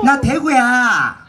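slow, high mock of her answer; mocking imitation. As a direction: parrot her back teasingly. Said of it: "mimics audience answer".

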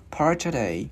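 PART TODAY run together as one unit; linked sounds. Shown as a demonstration. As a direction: glide from "part" straight into "today". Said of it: "luyến vào chữ E". (nối liền "part" và "today")

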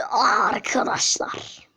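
hushed whisper to the friends; soft slow whisper. Acted. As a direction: breathe it out as a secret.

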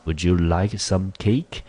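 slow, steady teaching read of the question; slow reread. Shown as a demonstration. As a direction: read it slowly for the class. Teacher rereads dialogue line slowly.

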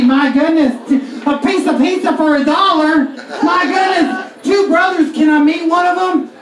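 hammed-up minister touring the city; Southern Baptist minister. Comic doing a minister touring New York, mock shouting. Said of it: "Southern Baptist minister".

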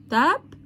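"تاب" alone as one syllable; isolated syllable. Shown as a demonstration. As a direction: lift "تاب" as a separate first beat. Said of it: "مقطع". ("تاب" مقطع لوحده)

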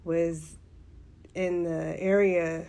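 raspy after an allergic reaction; hoarse, strained voice. Real, not acted. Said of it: "I apologize for my voice".

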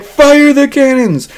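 high, drawn-out mock battle cry; hammed-up command. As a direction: shout the order, stretching every word. Officer shouting an order, acted out.

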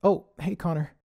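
breathless, high greeting; out of breath. Acted. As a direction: greet him while panting. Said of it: "slightly out of breath".

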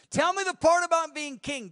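ambitious high pitched plea; greedy eager asking. Retold or imitated. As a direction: beg for the king part with loud craving. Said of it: "that's how most people would ask".

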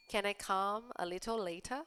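slow, careful read-aloud; slow clear classroom read. Shown as a demonstration. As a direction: read each word slowly for learners. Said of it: "rereads answer slowly".

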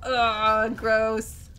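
loud, drawn-out groan of disgust; acted revulsion. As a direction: groan at something gross. Reacting to drunk friend's mess.

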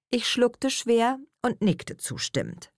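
usual speaking voice

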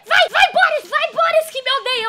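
pleading. Real, not acted. Begging the character for rescue.

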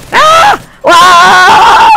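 very high, loud screaming; real frustrated screams. Real, not acted. Player losing in the match, screaming in frustration. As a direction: scream twice, the second long and held.

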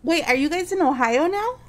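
talking through a mouthful of food; chewing while speaking, mouth full. Real, not acted. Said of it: "I apologize for talking with my mouth full".

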